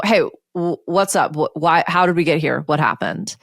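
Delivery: casual, non-blaming inquiry; open, curious questioning. Acted. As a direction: ask lightly, just wanting to understand. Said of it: "it feels completely different".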